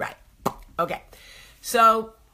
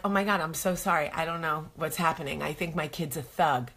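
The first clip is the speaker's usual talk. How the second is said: quick, softer embarrassed apology; flustered apology; 3 semitones lower, 6 dB quieter than usual. Retold or imitated. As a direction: rush out an apology.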